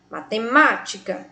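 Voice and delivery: "matemática" with the weight on "má"; stress on antepenultimate syllable. Shown as a demonstration. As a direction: lean on "má" inside "matemática". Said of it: "na antepenúltima posição". ("matemática" com a sílaba "má" mais forte)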